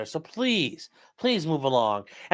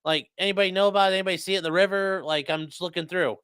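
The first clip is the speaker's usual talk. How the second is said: overly friendly; 4 semitones higher, 3 dB louder than usual. Pretend. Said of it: "You go".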